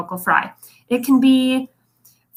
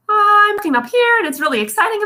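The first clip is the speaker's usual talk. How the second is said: starts higher and bright, then trails into fry at the end; fry at phrase end; 10 semitones higher than usual. Shown as a demonstration. Coach showing how sentences trail into fry, dropping off at the end. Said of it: "and then suddenly I drop it off".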